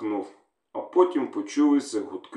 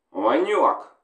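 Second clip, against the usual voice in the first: raised call, a touch louder; 4 semitones higher, 4 dB louder than usual. Acted. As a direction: call across the yard to a soldier. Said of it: "гукнув командир".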